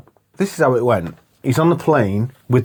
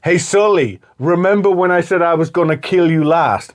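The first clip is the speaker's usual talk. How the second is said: raised, lightly imitated taunt; film hero; 4 semitones higher than usual. Hero holding Sully over the cliff, lightly imitated taunt. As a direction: call down to a dangling man. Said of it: "he's like".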